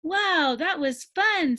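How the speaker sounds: high, out of breath and thrilled; breathless. Acted. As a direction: gasp it out after playing. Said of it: "said the new kid breathlessly".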